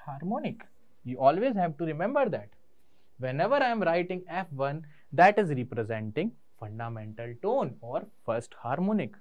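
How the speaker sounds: every word spaced out very slowly for students to note; slow emphatic dictation. Acted. Teacher drilling a rule into students, very slow and deliberate.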